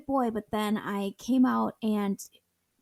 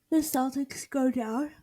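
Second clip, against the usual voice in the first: off-mic, voice drifting away; turned away from mic; 2 semitones higher than usual. Real, not acted. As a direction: speak turned away from the microphone. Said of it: "And you turned away from the mic".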